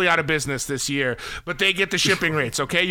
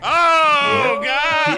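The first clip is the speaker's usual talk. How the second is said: loud high oh God; shocked; 9 semitones higher, 6 dB louder than usual. Real, not acted. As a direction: gasp it out, overwhelmed. Overwhelmed reaction.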